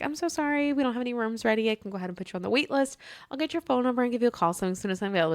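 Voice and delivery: soft, fast apologetic clerk; timid clerk. Retold or imitated. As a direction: rush the apology softly. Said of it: "And she's like".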